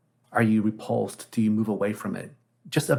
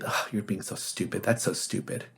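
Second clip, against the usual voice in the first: affectionate teasing; 4 dB quieter than usual. Retold or imitated. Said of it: "it's said with affection still".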